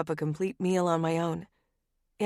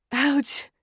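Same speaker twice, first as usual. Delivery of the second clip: higher, louder yelp; yelling ouch; 8 semitones higher, 4 dB louder than usual. A narrator's reading. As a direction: yelp from a knife cut. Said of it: "I yell".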